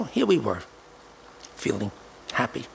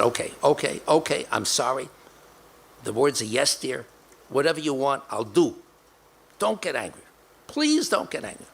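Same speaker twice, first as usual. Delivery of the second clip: placating; 5 semitones higher than usual. Retold or imitated. A husband begging his angry wife to calm down, in pleading apology. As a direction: soothe her, begging her not to get angry.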